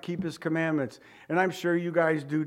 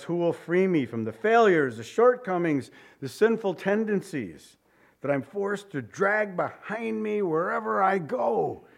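a touch of anguish, rising higher at the end; pleading cry; 4 semitones higher than usual. Acted. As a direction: plead to be freed from the weight. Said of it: "when he cries".

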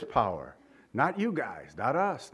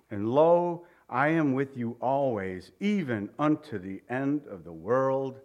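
solemn public Bible reading; scripture reading. Acted. Reads scripture aloud to congregation.

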